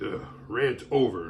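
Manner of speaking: slow, smug sigh of rant over; mock self-important sigh. Mocking Facebook posters who write rant over, with a smug sigh. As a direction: sigh it out like a smug poster who thinks they said something big. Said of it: "type two lines into Facebook and be like".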